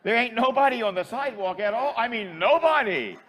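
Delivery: laughing. Real, not acted. Laughing at the absurd scene.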